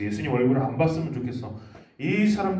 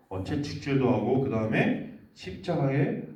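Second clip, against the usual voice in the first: usual speaking voice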